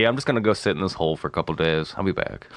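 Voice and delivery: imitating a pop singer. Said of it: "He's like".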